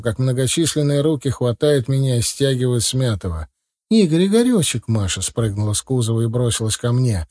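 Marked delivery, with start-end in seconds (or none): 3.9-4.8 frantic calling. A narrator's reading. Masha runs to beaten Igor.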